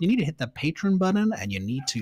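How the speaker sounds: hammed-up American hype voice; lightly put-on American pitchman; bad American accent. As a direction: sell it in a badly faked American accent. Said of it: "that's a terrible American accent".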